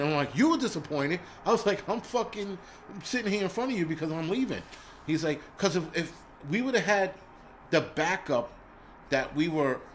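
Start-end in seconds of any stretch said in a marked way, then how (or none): 0.3-4.6 higher, raised voice in disbelief; incredulous retort. Retold or imitated. To the PA who retired, a raised, incredulous retelling. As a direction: throw his disappointment back at him.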